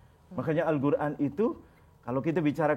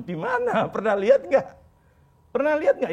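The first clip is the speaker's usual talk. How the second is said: pressing question; 10 semitones higher, 4 dB louder than usual. Retold or imitated. Preacher pressing the pilgrim.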